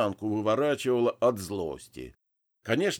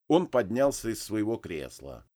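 ordinary delivery, nothing marked

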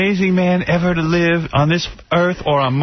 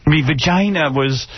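mock Australian. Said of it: "That's an Australian accent".

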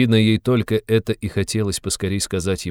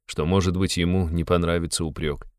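usual speaking voice

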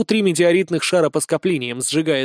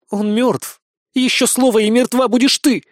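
menacing hiss, louder and higher; hissed threat; 7 semitones higher, 4 dB louder than usual. A narrator's reading. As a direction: hiss a death threat at the warrior. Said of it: "прошипела на воительницу". (злобное шипение)

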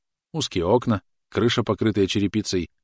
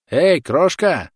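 loud call; 9 semitones higher, 8 dB louder, much slower than usual. A narrator's reading. Soldier calling across field.

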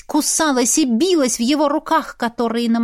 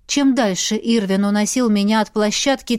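usual speaking voice

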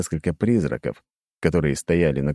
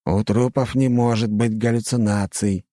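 unsure; 5 semitones higher than usual. Acted. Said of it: "неуверенно сказал второй".

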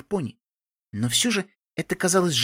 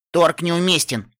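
slow, louder, no-bargaining tone; firm; 3 semitones higher, 5 dB louder, slower than usual. Acted. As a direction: lay down the terms flatly. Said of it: "сказала я".

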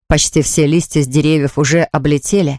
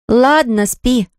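sister giving in, higher-pitched; relenting; 7 semitones higher, much slower than usual. A narrator's reading. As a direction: take pity on a little brother. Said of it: "сжалилась сестра". (сжалившись, голосом сестры повыше)

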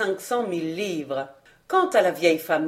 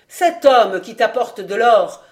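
loud accusing; 7 dB louder than usual. Acted. Villain denouncing loudly.

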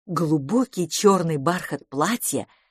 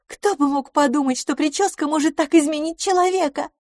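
higher, amazed exclamation; amazed friend; 11 semitones higher, 3 dB louder than usual. Acted. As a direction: marvel at the makeover. LaFosse amazed, voiced high. (изумлённо, голос выше)

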